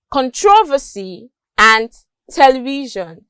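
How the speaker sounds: "controversy" and "television" with the stress set out clearly; native-style stress. Shown as a demonstration. Teacher showing native speakers' stress on "controversy" and "television". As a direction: show where the stress sits in "controversy" and "television". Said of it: "these words are stressed like this".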